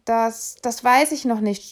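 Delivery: put-on a stuttering boy, repeating das; a boy stammering before the conductor. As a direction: trip over the first word in a panic. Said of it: "stotterte Emil".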